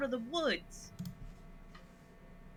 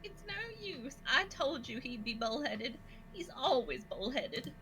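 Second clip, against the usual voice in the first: a lightly voiced Daisy, a little like Gretchen; Daisy sighing over the bullheaded mayor, a touch of Gretchen; 6 dB quieter than usual. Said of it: "she should sound a little like Gretchen".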